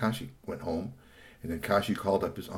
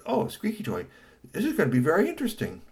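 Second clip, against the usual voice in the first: awed voice; 8 semitones higher than usual. Acted. Brother marvels at robot.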